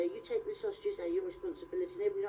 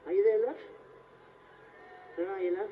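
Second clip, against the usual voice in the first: louder, insistent call; 4 dB louder than usual. Acted. Blindfolded performer searching for his volunteer, calling out. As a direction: call out to find her. Calls out after no answer.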